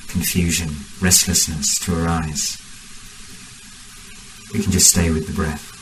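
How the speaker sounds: measured meditation guidance with long pauses; guided meditation. Real, not acted. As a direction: guide the group unhurriedly, phrase by phrase.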